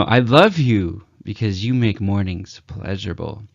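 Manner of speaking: bright, hopeful and sincere; optimistic. Shown as a demonstration. Coach showing how to say it with optimism. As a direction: sound like you truly mean it. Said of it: "you can hear the, uh, optimism in my voice".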